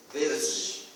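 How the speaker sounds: put-on verze again, the child's z; child's version. Shown as a demonstration. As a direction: repeat verze with a z. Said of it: "tentar colocar esse verze". (verze da criança, com z)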